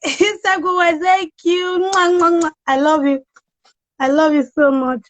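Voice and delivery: high, bright thanks with blown kisses; excited welcome. Real, not acted. Host greeting guests joining her live, thrilled. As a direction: gush over arriving guests.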